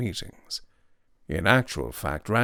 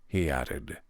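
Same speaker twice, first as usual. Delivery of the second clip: languid upper-class gent; 10 semitones higher than usual. Acted. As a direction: play him smug and breezy. The speaker's voice held.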